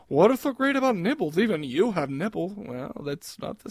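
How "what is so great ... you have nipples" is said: lightly voiced female imitation, higher at first; mock woman. Host acting out a woman's objection, lightly mocked woman voice. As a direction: put on a woman's lilting protest, lightly. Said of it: "tried explaining that to a woman".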